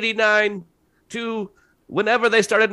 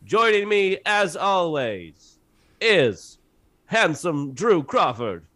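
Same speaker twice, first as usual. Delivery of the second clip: nineties trailer voice. Acted. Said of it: "this is my nineteen nineties trailer voice".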